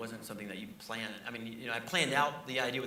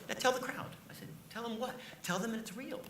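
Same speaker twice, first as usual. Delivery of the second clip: Trump impression; 9 semitones higher than usual. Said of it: "he's going like this".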